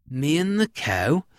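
questioning, rising at the end; puzzled farmer. Acted. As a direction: ask it in mild disbelief.

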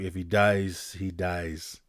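low, flat menace; cold Drago. Retold or imitated. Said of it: "he kinda just like".

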